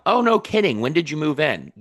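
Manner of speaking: high, intrigued reaction; curious. Shown as a demonstration. Coach models replying to a renter's news, curious. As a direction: react with keen curiosity, pitch jumping up. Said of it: "start being curious".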